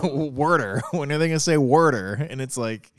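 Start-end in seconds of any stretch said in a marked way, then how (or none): 0.0-0.8 mock Philly accent on "worder"; Philly Boy Roy. Host parodying the show's accent, Philly accent. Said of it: "can't hear it without hearing Philly Boy Roy". 1.6-2.1 imitation Philly accent; Philly Boy Roy. Host waiting for them to say it, mock Philly accent. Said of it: "can't hear it without hearing Philly Boy Roy".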